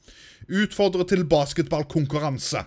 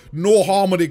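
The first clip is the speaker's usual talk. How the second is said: loud burst of glee, nå hit hard; excited; 4 semitones higher, 8 dB louder than usual. Real, not acted. Gamer gloating loudly at feuding neighbours. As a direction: crow with delight at catching them.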